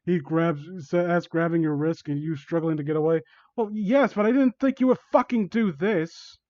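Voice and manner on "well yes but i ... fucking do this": high, agitated protest; Jacob. Acted. Victim protests to villain grabbing them, agitated. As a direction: push the pitch up, indignant. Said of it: "think this sounds like Jacob".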